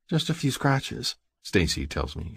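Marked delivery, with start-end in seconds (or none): 0.1-1.2 slow, high, slightly shaken woman's voice; shaky. A narrator's reading. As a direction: play down the hurt, high and slow.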